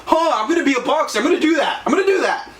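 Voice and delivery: pumped like you just watched Rocky; imitating a guy who thinks he's a boxer after one clip; mock hyped-up excitement. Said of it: "And then they go".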